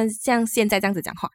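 像现在这样子讲话 in a relaxed Malaysian Mandarin accent; a light Malaysian accent. Shown as a demonstration. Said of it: "一就是可以很Malaysia".

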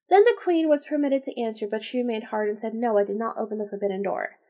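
measured read-aloud delivery; story narration. A narrator's reading. Reader telling the tale of the queen, narrating. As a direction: read the old tale out evenly.

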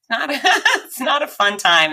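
a rueful laugh while telling it. Real, not acted. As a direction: laugh through the words. Laughing about the MRI.

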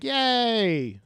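high drawn-out cheer; cheering children. Retold or imitated. Kids cheering on the man fixing their bus, high mock cheer. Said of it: "children are cheering me on".

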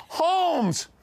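high, long-drawn mock shout; retold yell. Someone yells the winner's name out, high mock shout. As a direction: yell the name out across a crowd. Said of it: "somebody yells out".

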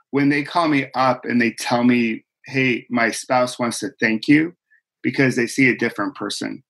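real emotion catching in the voice; choked up. Real, not acted. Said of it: "I'm gonna get choked up on this too".

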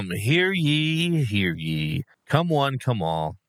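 booming proclamation, hammed-up; town crier. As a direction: announce it like a medieval herald. Comic announcement of the pick.

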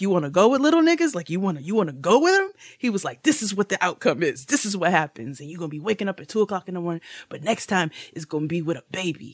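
hammed-up strict dad warning; lecturing dad.

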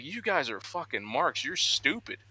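high mock rant at the crowd, sneering; imitating a ranting heel. Wrestler mocking reporters in backstage scrum, high sneering rant. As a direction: play the gloating villain mocking everyone. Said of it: "He goes off and he's like".

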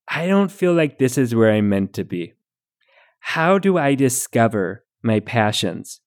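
folksy Midwestern mom letter-reading; Midwestern mom accent. Acted. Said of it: "best Midwestern mom accent".

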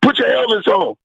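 high-pitched coach's order; imitating the coach. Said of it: "He's like".

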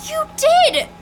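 accusing. Acted. Accuses Casey.

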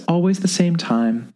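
put-on high, lilting old lady voice; a dreamy old lady; old woman. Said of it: "And Missus Lancaster replies".

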